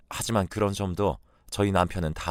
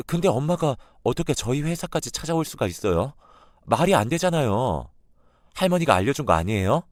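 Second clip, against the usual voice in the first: higher and louder, pressing hard; accusing granddaughter; 5 semitones higher, 3 dB louder than usual. Retold or imitated. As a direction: corner her with the accusation. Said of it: "크게 화를 내고". (할머니를 다그치는 손녀의 성난 목소리)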